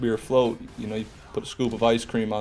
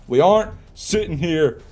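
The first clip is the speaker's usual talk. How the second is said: exasperated rant; 3 semitones higher, 4 dB louder than usual. Real, not acted. Exasperated rant at derailed chat.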